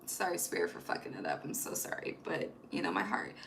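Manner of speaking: dropping to a near whisper, sorry to Spirit; whispered sincere sorry to Spirit; hushed apology. Real, not acted. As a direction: breathe the apology almost silently.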